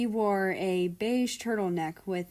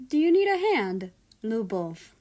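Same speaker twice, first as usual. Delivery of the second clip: voiced husband; 3 semitones higher, 6 dB louder than usual. A narrator's reading. Husband offers help.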